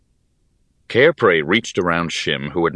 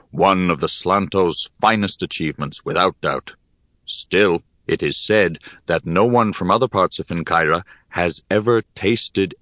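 put-on wise old teacher voice. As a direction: speak like a grave old sage. Cairpray speaks, low voice.

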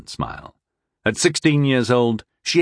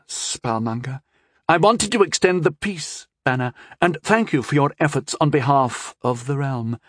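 scheming princess voice; 5 semitones higher than usual. Acted. Princess lecturing.

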